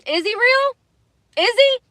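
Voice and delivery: high, disbelieving question; incredulous doubt. Real, not acted. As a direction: ask it high, almost pleading. Doubting God aloud.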